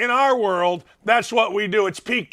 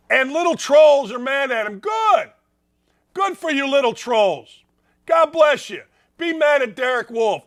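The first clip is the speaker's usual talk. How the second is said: sarcastic jeer; 4 semitones higher than usual. Real, not acted. Mocking trolls, loud sarcastic.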